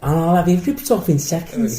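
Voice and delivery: hammed-up Liverpool chancer; Liverpool accent. Liverpool call handler fleecing a caller, mock Scouse. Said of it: "But not Liverpool".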